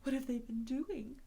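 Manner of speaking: high, breaking frightened cry; trembling panic. Acted. Toad shaking in terror at Rat, high and breaking. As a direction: gasp out the words in fear. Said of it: "trembling in every limb".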